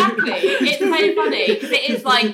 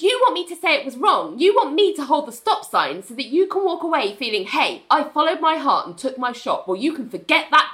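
slightly raised, emphatic tirade; mildly mad retort; 3 semitones higher than usual. Retold or imitated. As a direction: act out an indignant accusation. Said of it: "Ali's mad at him now".

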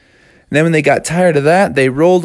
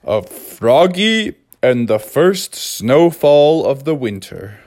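read-along storybook intro. Acted.

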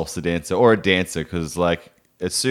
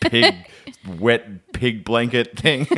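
laughing self-mockery; slower than usual. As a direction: crack up mid-insult at yourself. Mocking himself to dancers.

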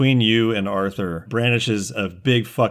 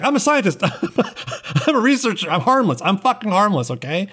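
terrified scientist; 10 semitones higher than usual. Acted. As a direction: insist you're harmless in a panic. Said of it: "He's like".

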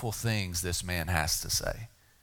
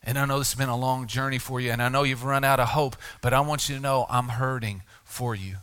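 compassionate. Acted. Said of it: "and he sighs, and he says".

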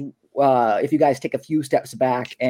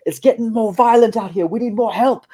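high, louder shouted call for backup; a guard at the gate yells to the others for more help, high and loud; guard yelling for help; 9 semitones higher, 3 dB louder than usual. Acted. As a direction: yell it back over the noise like a panicked guard. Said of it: "and he yells back".

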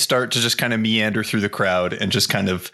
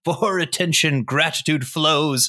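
loud recital; 5 semitones higher than usual. Acted. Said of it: "in a loud voice".

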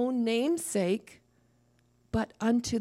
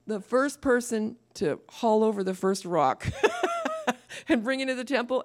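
laughing; 4 semitones higher, 4 dB louder than usual. Real, not acted. Laughing while explaining.

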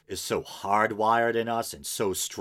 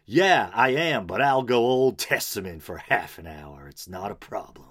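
a hammed-up, vaguely Southern preacher accent, a bit louder; slipped-in accent; 4 dB louder than usual. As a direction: play the pastor with a put-on preacher accent. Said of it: "that horrible accent I slipped into".

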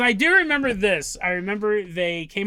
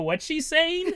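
confused; 7 semitones higher, slower than usual. Retold or imitated. Confused boat people.

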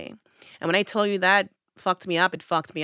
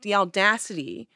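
indignant rant; 3 semitones higher than usual. Retold or imitated. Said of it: "I was so angry".

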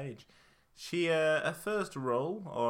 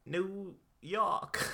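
put-on New York accent; 5 semitones higher than usual. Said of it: "when you do that accent".

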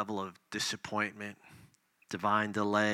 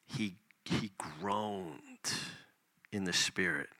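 hushed; 5 semitones lower, 6 dB quieter than usual. Acted. Preacher reading Jesus's grief.

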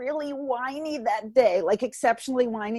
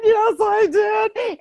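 loud drawn-out yes; 11 semitones higher, 6 dB louder, much slower than usual. Retold or imitated. Mom snaps back at child.

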